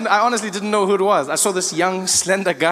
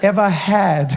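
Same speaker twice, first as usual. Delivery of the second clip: laughing; slower than usual. Retold or imitated. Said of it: "repeating her words".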